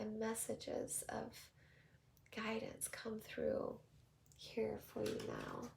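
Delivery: softly spoken blessing, unhurried pauses; hushed, reverent invocation; soft prayer. Real, not acted. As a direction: pray gently over the listeners. Prays over the listeners.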